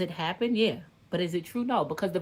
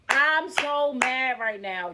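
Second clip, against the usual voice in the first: slow, drawn-out anger; openly mad; 3 semitones higher, slower than usual. Real, not acted. Venting to viewers, slow and openly angry. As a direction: let the anger stretch out slowly.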